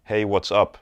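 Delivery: casual "Hey, what's up" to a friend, on one tone; "Hey, what's up" as between equals, pitch held steady; same level tone. Shown as a demonstration. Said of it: "It's at the same tone the whole time".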